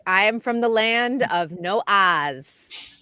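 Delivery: put-on slow New England accent dropping the R. A hint of New England accent for the co-host. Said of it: "New England accents too".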